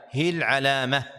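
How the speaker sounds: "هي العلامة" with unvoweled ya, run together as hil-alama; sukun on ya. Shown as a demonstration. Teacher reciting own verse, "هي العلامة" said hil-alama. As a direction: join "هي العلامة" without any a after the ي. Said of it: "بسكون الياء".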